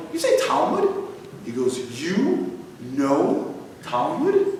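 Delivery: high, thrilled you say Talmud; light up with surprise; jumping at the word Talmud; surprised delight. Retold or imitated. Excited about Talmud.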